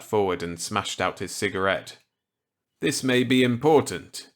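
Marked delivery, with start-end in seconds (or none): 2.8-4.3 higher, louder character voice; eager reply to an old colleague; Walker's voice. Acted. Walker accepting Millet's gambit eagerly.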